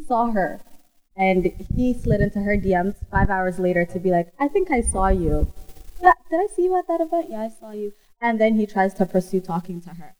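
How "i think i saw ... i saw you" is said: mocking a guy. Mocking guy's late DM.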